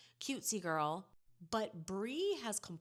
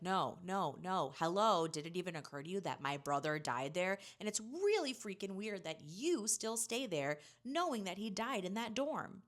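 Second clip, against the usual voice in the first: exasperated outburst; 2 semitones higher, 4 dB louder than usual. Retold or imitated. Wrigley angrily refusing Steven.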